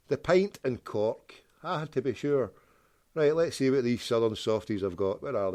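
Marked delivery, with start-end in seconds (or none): 0.1-1.3 slow, mock Irish lilt; poor Irish accent. Reading a pub name aloud, poor Irish accent. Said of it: "Sorry for my poor Irish accent". 1.6-2.5 higher, softer mock Irish; poor Irish accent. Joking to listeners, poor Irish accent. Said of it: "Sorry for my poor Irish accent".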